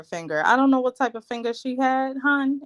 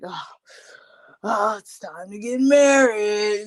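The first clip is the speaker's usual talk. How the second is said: slowed, lightly acted bride voice; imitating the bride. Recapping how the bride stood before the wedding, lightly imitating her. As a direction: drag it out as the waiting bride. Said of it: "that's how she was standing, like".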